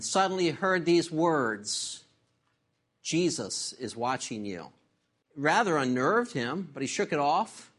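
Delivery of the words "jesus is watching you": low and hushed, a spooky voice from the dark; a low, quiet warning from somewhere in the dark; hidden parrot voice. Acted. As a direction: drop the voice low like an unseen watcher. Unseen voice in dark house.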